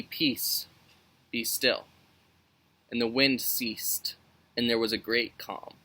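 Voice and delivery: measured Bible reading voice; calm scripture read aloud to youth group. Acted. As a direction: read the passage steadily. Reads scripture passage aloud.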